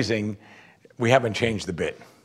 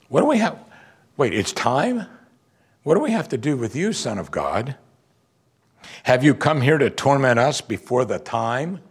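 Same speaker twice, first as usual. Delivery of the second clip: demons crying out. Retold or imitated. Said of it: "they cried out to him".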